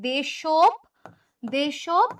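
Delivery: দেশপ as desh-o, split off and rising; a slow teaching split of দেশপ; spelling it out. Shown as a demonstration. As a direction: break দেশপ into its first part. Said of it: "একটা পর নিচে হসন্ত হবে".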